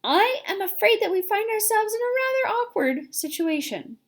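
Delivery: put-on old grasshopper addressing the company; hiding fear. A narrator's reading. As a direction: keep the fear out of the voice. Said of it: "trying very hard to keep the fear and disappointment out of his voice".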